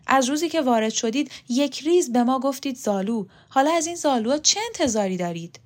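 mildly heated, rising tirade; acted reproachful outburst; indignant accusation. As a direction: lay out the grievance with mounting indignation. Old woman angrily accuses Younes in quarrel.

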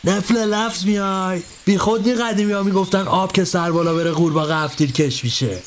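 put-on old master brushing off his helper; Ebrahim's voice. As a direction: drag the words out like a scolding master. Ebrahim mocks Khosrow.

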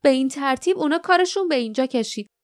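high, scornful angry outburst that drags its opening words; mock the weak king with bitter anger. A narrator's reading. Jasmine shaking her head at Lief, bitterly angry. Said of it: "جاسمین با عصبانیت سرش را به چپ و راست تکان داد".

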